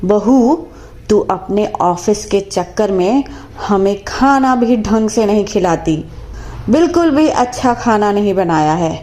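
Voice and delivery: scolding mother-in-law, a touch of anger; sharp complaint to her daughter-in-law, quickening at the end; mother-in-law angrily scolding her daughter-in-law over breakfast; angry. Acted. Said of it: "गुस्से से कहती है".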